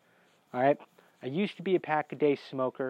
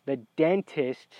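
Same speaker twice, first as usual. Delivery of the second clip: "dentist" drawn out slowly, set apart; sarcastic air quotes on "dentist"; air-quoted word; slower than usual. Shown as a demonstration. Patient doubting his so-called dentist, slow air-quoted emphasis. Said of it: "I'm saying with air quotes".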